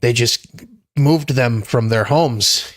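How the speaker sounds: lightly put-on Jewish shtick voice, mocking the critics; a hint of a whiny Jewish uncle mocking the pushback. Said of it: "that voice you just did was very Gilbert Gottfried".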